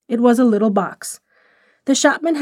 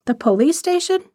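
amused disbelief; 6 semitones higher than usual. Acted. Rosemary laughing at the girl's fear of the police, light. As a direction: pitch jumps up in amused surprise. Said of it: "Rosemary laughed out".

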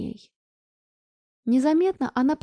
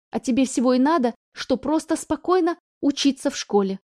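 pleading; 3 semitones higher, 4 dB louder than usual. Acted. Mother pleading with daughter.

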